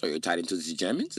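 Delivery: mock German accent, rising at the end; accusing question, German accent. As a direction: probe suspiciously in a German accent. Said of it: "Why are you doing the German accent".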